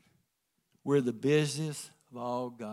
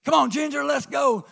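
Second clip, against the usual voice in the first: higher, louder call to the dog; 11 semitones higher, 8 dB louder than usual. Retold or imitated. Pastor Keith calling his basset hound to run, shouted call. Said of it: "Pastor Keith would say".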